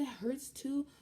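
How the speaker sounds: high nurse voice. Retold or imitated.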